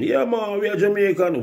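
imitating Jamaicans waiting outside; lightly mocked Jamaican patois. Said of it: "these Jamaicans always wait".

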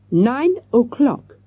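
put-on slow, halting French-accented words; halting English, French accent. A narrator's reading. Waiter confirming a time by phone, halting French-accented English. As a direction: pick out each English word with a French accent. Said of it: "speaking in halting English".

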